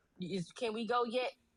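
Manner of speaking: plain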